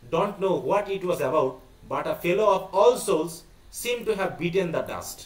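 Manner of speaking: slow, deliberate read-aloud of a play; reading text aloud. Acted. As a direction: read it out word by word, slowly. (ধীরে ধীরে নাটক পাঠ)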